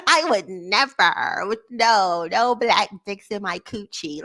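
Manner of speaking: slow, prissy mock of the lady's line; mocking imitation. Vlogger mocking the white lady from the clip, slow and prim. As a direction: lightly parrot her pearl-clutching.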